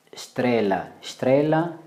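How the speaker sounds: estrela starting straight on a SH sound, shtrela. Shown as a demonstration. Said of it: "wa Brazil watakwambia estrela". (estrela itamkwe shtrela, kwa sauti ya SH)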